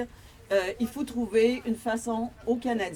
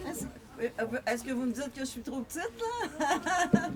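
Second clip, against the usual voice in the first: quick, higher joking question; amused, laughing; 5 semitones higher than usual. Real, not acted. Speaker teasing the crew about being too short, laughing. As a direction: say it fast and break into a laugh.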